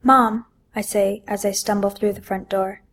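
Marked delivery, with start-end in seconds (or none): 0.0-0.4 calling out. Acted. Calling out coming home.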